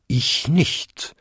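lightly voiced bell, rising at the end; short bonging denial; second-largest bell bonging. A narrator's reading. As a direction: answer as a big bell, with a slight lift. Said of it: "bummte die zweitgrößte".

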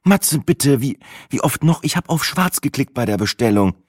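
höher, leicht genervt vorwurfsvoll; Sina, genervt. A narrator's reading. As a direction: verteidige dich gereizt gegen den Vorwurf. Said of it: "zog Sina die Stirn kraus". (Sina rechtfertigt sich genervt bei Matze)

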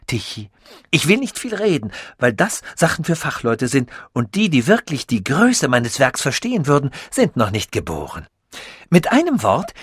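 lightly voiced, pleased with his own genius; proud scientist voice. Sasul boasts to Tichy, lightly voiced proud inventor.

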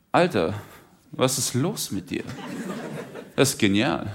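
hushed, stunned reaction; understated amazement. Acted. Manager reading his artist's rhyme, quietly stunned. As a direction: let the praise come out softly, in pauses.

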